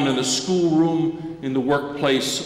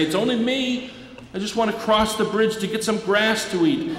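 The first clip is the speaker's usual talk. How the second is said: higher, small timid goat voice; little goat voice; 6 semitones higher than usual. Acted. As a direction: squeak it out like a scared little goat. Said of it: "Little Billy Goat Gruff managed to say".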